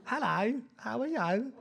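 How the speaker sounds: high, sing-song imitation of a Black Country accent; mock Black Country accent. Preacher imitating a Walsall voicemail caller in a high Black Country accent. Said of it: "We couldn't understand what they were saying on the voicemail".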